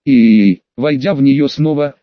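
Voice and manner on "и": low, loud held cry; acted cry, pitched low; drawn-out cry. A narrator's reading. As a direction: hold a loud wail. Cry of pain in story.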